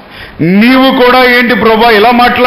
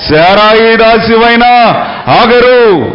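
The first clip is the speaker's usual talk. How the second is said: slow, firm divine naming; a hint of God calling her out, drawn out; preacher voicing God naming Hagar slowly; God's calling voice; slower than usual. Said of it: "ఏమని పిలుస్తున్నాడు దేవుడు".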